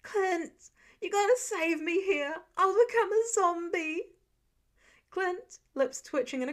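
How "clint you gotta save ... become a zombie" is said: high, loud melodramatic plea; hammed-up dying actor. A narrator's reading. Peter begs Clint to save him, hammed-up theatrical plea. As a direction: overplay it like a dying Shakespearean hero. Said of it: "mock gasped over the top like a dying Shakespearean actor".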